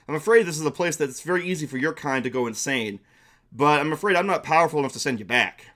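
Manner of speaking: welcoming storybook creature, only slightly put on; a helpful accordion dragon offers aid, lightly voiced; lightly voiced friendly dragon. Dragon warns the newcomer.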